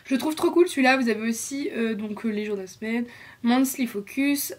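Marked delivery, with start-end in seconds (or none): 3.4-4.5 slow English words in a heavy French accent; self-conscious French accent on English labels. Real, not acted. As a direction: read the English headings with a clumsy French accent, carefully. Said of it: "désolée pour mon accent qui est pourri".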